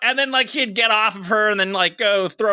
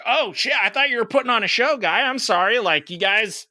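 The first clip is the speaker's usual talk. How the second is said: mock apology; 6 semitones higher than usual. Sarcastic confrontation with amorous couple.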